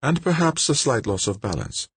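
explaining technician character. A narrator's reading.

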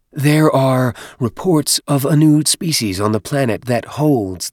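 a hint of a haughty minister; lightly voiced stately minister.

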